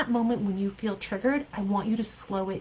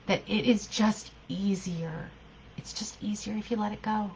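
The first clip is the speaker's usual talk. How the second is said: hushed, tempting whisper of the inner gremlin; 5 dB quieter than usual. Acted. Voicing the gremlin's rationalization.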